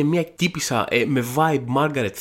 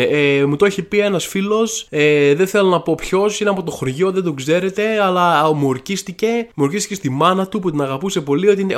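lightly voiced evasive source, slightly higher and louder; mock a hesitant witness swearing it's true; unreliable source; 3 semitones higher, 4 dB louder than usual. Podcaster mimics a source vouching for a friend's story, lightly mocking. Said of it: "δεν μπορεί η πηγή σου να είναι".

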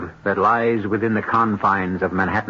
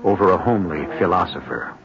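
measured, ominous host voice; radio host intro. Acted. Host greets the radio audience, measured and ominous. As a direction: welcome listeners into a dark tale.

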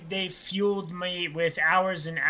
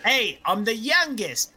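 bad Canadian accent; 3 semitones higher, slower than usual. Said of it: "That's a bad Canadian accent".

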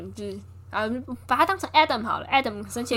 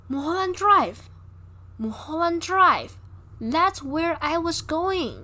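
slow, higher, drawn-out voice as if a memory surfaces; dazed recollection; 6 semitones higher, 4 dB louder, much slower than usual. Retold or imitated. Rita tells Betty the memory she suddenly recalls, slow and dazed. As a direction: let each word float up slowly, half in a trance. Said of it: "突然像是想起了一个记忆".

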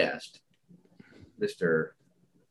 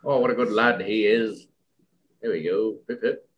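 higher mock British toff voice; hammed-up British accent; 3 semitones higher than usual. Host teasing the English guest, hammed-up British accent. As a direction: play a chirpy English gent.

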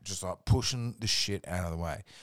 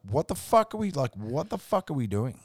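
retold disbelief; 6 semitones higher than usual. Retold shock at stench.

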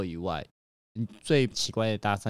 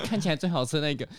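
customer's vague answer, faster; 4 semitones higher, faster than usual. Retold or imitated. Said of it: "他真的说".

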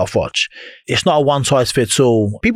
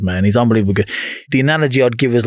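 ordinary delivery

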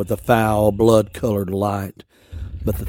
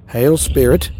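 put-on bold young witch; 5 semitones higher, 7 dB louder than usual. Witch girl greets the beast.

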